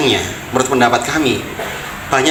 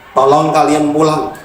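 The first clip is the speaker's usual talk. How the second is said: pleading call; slower than usual. Retold or imitated. Father begging children to come.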